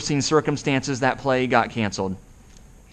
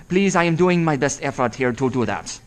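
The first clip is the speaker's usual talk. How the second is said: German accent. Shown as a demonstration. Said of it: "Wow, that's a good accent".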